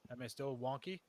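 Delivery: muffled, distant audio; inside a fishbowl. Real, not acted. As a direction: sounds like in a fishbowl. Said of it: "you sound like you're in a fishbowl".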